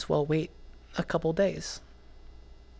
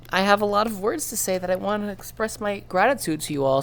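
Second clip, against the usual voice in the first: crying while talking; 4 semitones higher, 4 dB louder than usual. Real, not acted. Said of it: "my crying gets a little bit interrupted".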